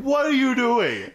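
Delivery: high, loud, slowed mock bafflement; baffled outcry. Reacting to the grenade scene, a hammed-up baffled cry. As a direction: drag it out in disbelief. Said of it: "It was like".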